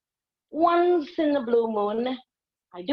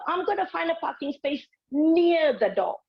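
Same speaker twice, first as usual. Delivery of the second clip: confident diva; 6 semitones higher than usual. Retold or imitated. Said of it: "remember, I'm a diva".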